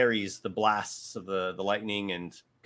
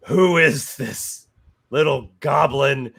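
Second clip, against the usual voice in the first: booming god; 3 semitones higher, 9 dB louder than usual. Acted. Game master voices the god answering the goblin, booming. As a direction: boom it out like an affronted god. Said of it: "the god essentially said something like".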